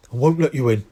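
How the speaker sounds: breathless Hagrid refusing them; puffing Hagrid. A narrator's reading. Hagrid puffing at Harry and Hermione through the window. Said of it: "he puffed".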